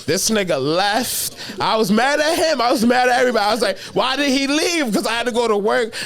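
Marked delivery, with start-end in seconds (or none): 1.6-3.5 high, louder mock outrage; mock mad. Complaining his friend left him sick, mock outrage. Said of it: "No, I wasn't really mad". 3.9-4.9 high, slow whiny complaint; mock whine. Asking why his friend left him, slow high whine.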